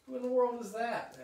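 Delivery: high, loud astonished cry; astonished question. Acted. Lucy staring at Snoopy's costume, astonished and loud. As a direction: gasp it out in disbelief.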